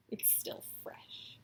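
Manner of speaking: even fainter unvoiced whisper. Real, not acted. Vlogger whispering about last night, nearly silent. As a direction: barely breathe the words.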